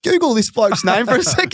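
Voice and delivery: high mock bouncer voice to his assistant; bouncer ordering. Doorman telling assistant to google the player, mock voice. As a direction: bark it like a busy doorman. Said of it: "He goes".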